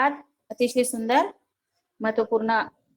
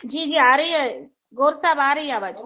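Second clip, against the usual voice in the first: calling out; 5 semitones higher, 6 dB louder than usual. Real, not acted. Checking audio on a call.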